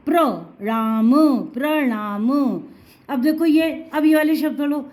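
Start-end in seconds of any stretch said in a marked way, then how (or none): 0.1-2.3 प्र with a short a, then the rest, then प्रणाम slowly joined; syllable-by-syllable demonstration. Shown as a demonstration. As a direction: sound out प्रणाम in slow, separate pieces. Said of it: "अ की sound आ रही है". (प्रणाम को टुकड़ों में धीरे-धीरे बोलना)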